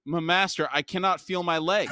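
servant's stammering panic, voice up and loud; panicked Monug. Acted. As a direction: blurt it out in a panic to the god. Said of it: "Monug stammered".

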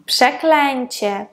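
przeklęcie slowly, ę heard as EN; audible nasal "en". Shown as a demonstration. Teacher giving a Polish example, przeklęcie slowly with EN for ę. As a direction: draw out przeklęcie with a clear EN. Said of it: "як он і ен".

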